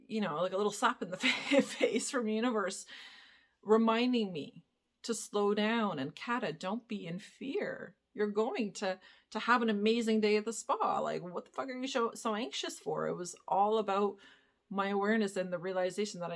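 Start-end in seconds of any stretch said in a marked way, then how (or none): 6.0-10.4 gentle self-reassurance. Retold or imitated. Reassuring herself in self-talk.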